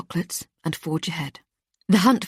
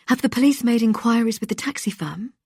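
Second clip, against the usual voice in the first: upbeat host, a touch higher; bright radio presenter; 5 semitones higher than usual. Acted. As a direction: coax the caller along like a cheerful host.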